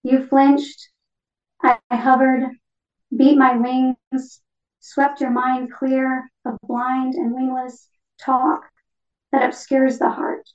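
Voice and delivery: measured poetry reading in short phrases; poem reading. Acted. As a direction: read it as a poem, pausing after each phrase. Reads own poem as the parakeet.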